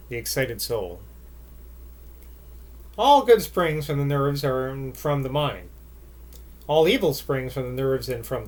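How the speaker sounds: measured, expressive literary reading; story narration. A narrator's reading. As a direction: read it like a novel aloud. Reads a literary passage aloud.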